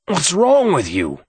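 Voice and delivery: high, drawn-out cry. A narrator's reading. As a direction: call it out slowly, pitched well up. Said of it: "he cried out".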